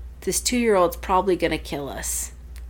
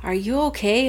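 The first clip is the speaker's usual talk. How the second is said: put-on slightly higher child's question; lightly voiced daughter; 4 semitones higher than usual. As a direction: check on mom, lightly imitating a kid. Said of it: "Our daughter's like".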